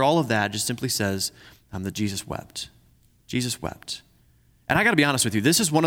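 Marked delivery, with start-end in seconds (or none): 1.7-4.0 soft, solemn delivery of the two words; a reverent near-hush. Real, not acted. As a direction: let it land quietly, with weight. Solemn quiet reading of verse.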